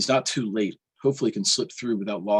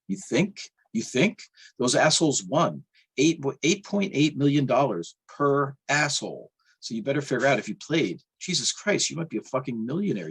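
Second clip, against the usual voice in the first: much higher, worked-up disbelief; incredulous excitement; 6 semitones higher than usual. A narrator's reading. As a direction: needle him, giddy and amazed. Chastain excitedly berating Craver.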